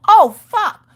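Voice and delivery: high, loud yelled curse; child yelling. Retold or imitated. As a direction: yell it like a kid in trouble. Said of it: "a child yell".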